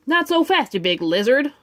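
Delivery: shouted. Acted. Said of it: "shouted Buzz".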